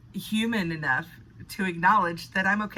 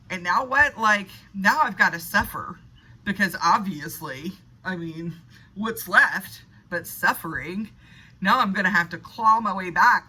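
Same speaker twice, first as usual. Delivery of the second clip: victim mindset; 3 semitones higher than usual. Retold or imitated. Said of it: "if I were in the victim mindset of this".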